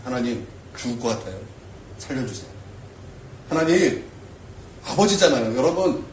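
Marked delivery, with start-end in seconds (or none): 0.0-2.5 quiet plea. Retold or imitated. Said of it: "도와달라 기도하세요".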